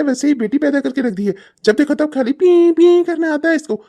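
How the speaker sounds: high, loud scornful ranting; angry rant. Acted. Father ranting to his wife about the crying girl, angry. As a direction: spit out the complaint.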